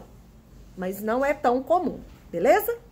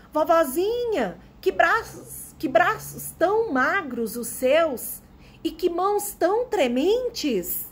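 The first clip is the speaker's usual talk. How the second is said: put-on slow, higher-pitched storybook girl's question; Chapeuzinho asking; 5 semitones higher, slower than usual. Chapeuzinho asks her granny about her arms and hands, high and slow. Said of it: "Ela perguntou, chapeuzinho".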